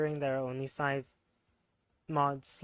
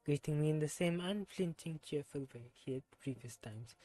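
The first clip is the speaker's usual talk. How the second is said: put-on reading the character's lines in a self-admitted terrible French accent. Streamer voicing a game character, bad French accent. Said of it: "Hope y'all enjoyed my terrible French accent".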